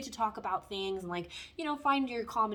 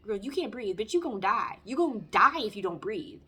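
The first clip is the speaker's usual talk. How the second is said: panicking inner voice; 7 dB louder than usual. Retold or imitated. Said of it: "my brain telling me".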